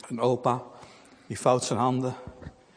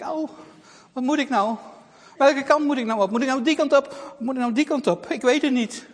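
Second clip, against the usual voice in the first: put-on helpless girl; 6 semitones higher, 4 dB louder than usual. Lost girl despairs.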